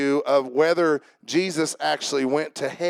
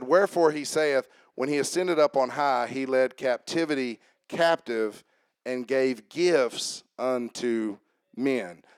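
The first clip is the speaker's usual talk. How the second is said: slow, deliberate scripture reading; measured reading with pauses between phrases. Real, not acted. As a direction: read the verse slowly so they get it. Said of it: "I wanna read it slow so we get it".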